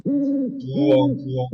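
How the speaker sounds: Korean-style owl hoot; owl hoot imitation. Shown as a demonstration. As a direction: demonstrate the Korean owl call. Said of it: "Our sound".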